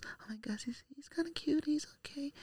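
put-on very quiet, hushed whispered chatter in girls' voices. Imitating girls whispering about a new kid walking to his desk: imitating girls whispering. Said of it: "you can hear a little bit of whisper".

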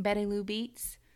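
slight, lightly done twang. Saying a name aloud the way it rolls off the tongue: little twang. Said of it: "with a little twang".

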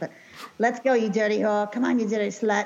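clumsy, bad attempt at a Boston accent. Retelling what a man said, in a bad boston accent. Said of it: "I can't do a good Boston accent".

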